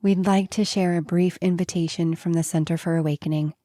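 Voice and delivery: measured invitation to a course; inviting podcast ad read; scripted promo read. Acted. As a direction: read the announcement in even, rounded phrases.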